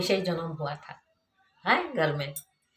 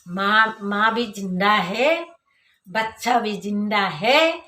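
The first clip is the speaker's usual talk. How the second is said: louder, slow, rising relief; slow, louder, joyful relief; relieved joy; 2 semitones higher, 6 dB louder, slower than usual. Real, not acted. Relief after the birth succeeds.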